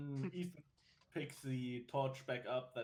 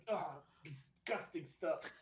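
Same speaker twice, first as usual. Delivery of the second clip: slow, mildly disgusted complaint; drawn-out in-character grumble; disgusted grumbling; 3 semitones higher, slower than usual. Acted. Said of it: "complains and curses under his breath".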